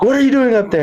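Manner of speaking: hammed-up bouncer shouting up at him; big deep voice. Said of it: "with a big, deep voice".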